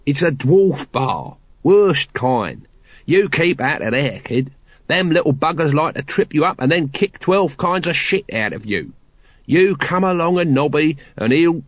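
put-on grumbling old hand, insistent warning; lightly voiced wary watchman. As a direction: warn the kid off firmly. Nobby warns about dwarf bar.

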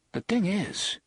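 high-pitched, helplessly amused; a touch of helpless laughter. A narrator's reading. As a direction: let helpless amusement lift the voice. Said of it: "Eddie laughed helplessly".

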